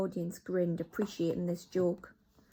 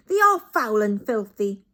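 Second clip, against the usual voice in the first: witches chorus; 3 semitones higher, 11 dB louder than usual. Acted. Witches repeat their leader, loud echo. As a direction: echo it with relish.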